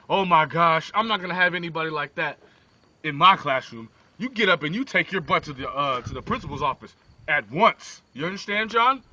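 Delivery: loud scolding teacher; ordering him out to the principal; angry teacher. Acted. Teacher scolds John in class.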